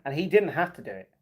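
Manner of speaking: ordinary talk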